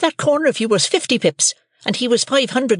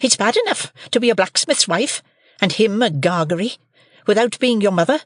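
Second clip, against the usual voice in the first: shrill high shrewish scold; scolding sister; 9 semitones higher than usual. A narrator's reading. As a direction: Mrs Joe scolds young Pip, high and shrill.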